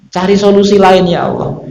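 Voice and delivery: mildly acted begging that sinks; imitated pleading prayer. Prophets asking God for another way, imitated pleading. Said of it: "doa dengan Allah".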